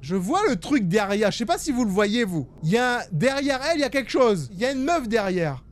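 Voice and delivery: panicking gamer. Real, not acted. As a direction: urgently warn the viewers. Spots figure behind her. (voix alarmée et pressante)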